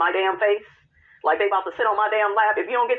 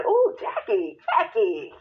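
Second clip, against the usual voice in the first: mock shocked ooh; slower than usual. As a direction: gasp at Jackie's words, pitched way up. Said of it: "I was like".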